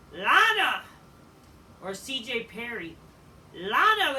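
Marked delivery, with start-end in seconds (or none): 0.1-0.8 loud, higher crowd-style call of her name; excited shout. Retold or imitated. Fan hyping Lana's debut, loud excited shout. 3.5-4.2 loud, higher crowd-style call of her name; excited shout. Retold or imitated. Fan hyping Lana's debut, loud excited shout.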